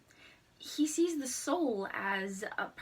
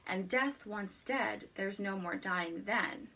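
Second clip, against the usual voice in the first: reciting a sonnet; slower than usual. Shown as a demonstration.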